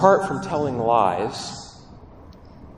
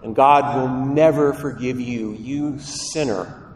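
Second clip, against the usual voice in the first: accusing voice. Acted. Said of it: "you hear a voice that says".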